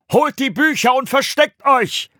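loud, high shouted orders; rally the monks to hide; urgent call. A narrator's reading. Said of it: "rief er den anderen Mönchen zu".

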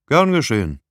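easy, good-natured reply. A narrator's reading. Rieger brushing off Marianne's jab, good-natured. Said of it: "sagte Rieger gutmütig".

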